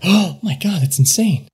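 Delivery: mildly acted shocked gasp; gasping onlookers. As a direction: react like a startled sober bystander. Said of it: "sober people are just kind of, like, gasping".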